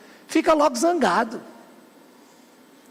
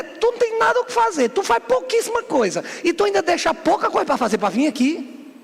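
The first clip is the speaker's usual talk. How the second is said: acted scornful put-down in a raised pitch; belittling older brother; 4 semitones higher than usual. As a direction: play the brother putting down the younger one. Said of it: "O que ele tava dizendo é".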